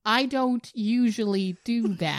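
awkwardly drawn-out confession, half laughing; sheepish retold awkwardness; awkward admission. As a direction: say it slowly, embarrassed, with a laugh creeping in. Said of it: "I said rather awkwardly".

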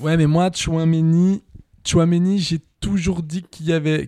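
stuffy nose, slow speech; blocked nose. Real, not acted. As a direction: talk through a blocked nose. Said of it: "j'ai le nez bouché".

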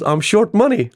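high-pitched mock-tearful confession; imitated crying caller. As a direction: play the upset caller, half-hearted sob. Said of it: "Like, he's really crying".

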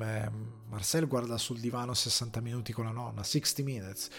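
talking through a tired, raspy throat; hoarse voice. Real, not acted. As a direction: voice going rough and raspy. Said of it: "scusate la voce, inizia a fare le bizze". (voce rauca che fa le bizze)

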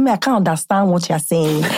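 put-on deep Nigerian accent on a retort; movie Nigerian accent. Retelling a retort to an admirer, movie Nigerian accent. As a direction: exaggerate the Nigerian film accent. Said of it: "I was doing that movies Nigerian accent".

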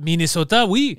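Minnesota said the French Canadian way; mock Quebecer confirming, in a thick accent. Bogus Minnesotan insisting on home state, in a Quebec accent. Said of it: "with a thick Quebec accent".

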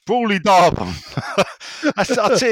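hammed-up American accent; American preacher accent. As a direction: keep the Southern preacher going. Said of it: "American accent".

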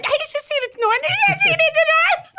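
high, loud laughing plea. Retold or imitated. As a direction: beg them through giggles. Begging coworker, laughing.

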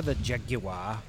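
Jaguar in three syllables, "JAG-yoo-ah"; British-style Jaguar. Pretend. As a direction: say "Jaguar" British, dropping the final r. Jokes on the British word.

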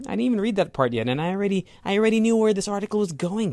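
high, fast and pleased with himself; excited. Real, not acted. Host bragging he predicted the article, high and excited. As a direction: crow that you called it.

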